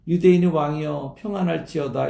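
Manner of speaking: lightly voiced taunting greeting; a hint of sly sarcasm; mocking sneer. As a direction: needle him with a smirking mock welcome. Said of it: "깐죽대면서 말이죠".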